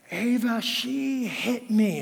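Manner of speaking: put-on high, slow whiny little girl tattling; a bawling kid running to Daddy; mock sobbing child. Crying daughter tattling to dad.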